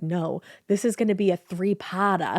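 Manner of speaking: bad Boston accent; exaggerated Boston accent. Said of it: "in my worst Boston accent".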